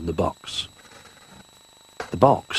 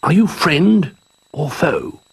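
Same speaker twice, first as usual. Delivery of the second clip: cautious call; 9 semitones higher, 4 dB louder, slower than usual. A narrator's reading. Calling into the box.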